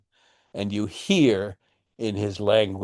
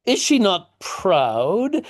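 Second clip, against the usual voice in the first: higher, slow, short choppy outraged questions; father turning coarse and indignant; blunt tradesman; 7 semitones higher, slower than usual. Acted. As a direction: bark them out like a peasant master. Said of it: "he starts to talk in shorter phrases".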